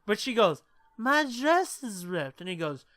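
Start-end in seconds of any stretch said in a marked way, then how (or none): 1.0-2.4 high, slow, drawn-out lament; dazed drunk girl. Retold or imitated. Drunk girlfriend telling boyfriend her dress is ripped.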